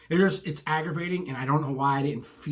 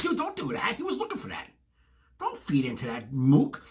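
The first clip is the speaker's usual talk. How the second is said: exasperated scolding. Retold or imitated. Scolding friend who took the bait.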